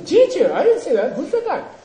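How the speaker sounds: high, punchy debate retort; with conviction. Shown as a demonstration. Student answering a challenger in the debate ground, with conviction. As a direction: fire back a high-pitched denial. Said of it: "say it with some convin-, conviction".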